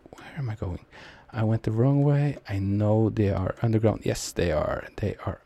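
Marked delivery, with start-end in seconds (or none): 0.1-0.8 a tense, scared whisper to himself; a lost, nervous whisper; anxious whisper. Real, not acted. Gamer hiding from enemies mid-round, whispering nervously.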